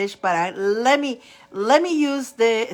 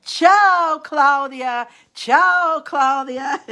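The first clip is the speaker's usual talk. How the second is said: cheerful greeting; 4 semitones higher, 5 dB louder, much slower than usual. Real, not acted. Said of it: "greeting Claudia".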